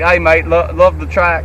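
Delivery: put-on Irish accent slipping into Australian; botched Irish accent. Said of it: "That's Australian".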